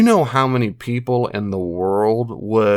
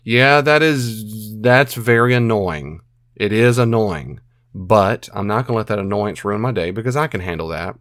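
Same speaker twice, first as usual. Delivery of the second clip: calm labelling. Shown as a demonstration. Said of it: "or if a proper label is".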